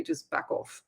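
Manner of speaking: a secretive whisper, just back off. Acted. Psychic whispering advice to keep quiet. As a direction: whisper it, almost voiceless. Psychic advises staying silent.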